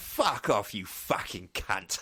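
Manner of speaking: slow, threatening, menacing London Cockney accent. Showing how swearing sounds in a cockney accent: cockney accent. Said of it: "'cause Cockney's like".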